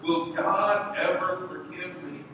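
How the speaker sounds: a grieving woman asking her minister, slow and anguished; tortured plea. Retold or imitated. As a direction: plead for forgiveness, slowly and painfully. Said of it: "her speech was tortured".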